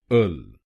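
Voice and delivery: अल said alone, short and firm; syllable demo. Shown as a demonstration. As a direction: model अल as one clear syllable. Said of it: "को बोलिए अल". (शब्दांश अल अलग से साफ़ बोलें)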